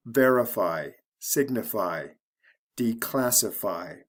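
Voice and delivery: VER-ify, SIG-nify, de-CLASS-ify; stress before the ending. Shown as a demonstration. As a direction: land the stress just before the ending in verify, signify, declassify. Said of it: "syllable before the ending is stressed".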